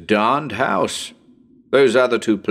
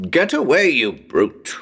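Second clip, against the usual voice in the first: irritated shooing; 4 semitones higher than usual. Acted. Investigator shooing the bat from his face, irritated outburst. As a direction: shoo off a pest.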